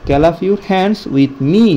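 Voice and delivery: very slow, each word drawn out; slow drill. Shown as a demonstration. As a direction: lead the class slowly in a chant. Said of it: "আমার সাথে তোমরা হাততালি দাও". (ধীরে ধীরে শিক্ষকের মতো বলা)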